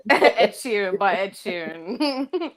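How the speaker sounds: slow, laughing through the words. Real, not acted. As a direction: laugh it out slowly. Laughing while repeating friend's answer.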